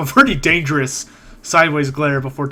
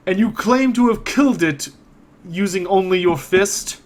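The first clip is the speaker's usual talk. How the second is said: higher-pitched, incredulous challenge; glaring challenge; 4 semitones higher than usual. Acted. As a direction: question them as if you doubt the claim. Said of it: "he glares down at you".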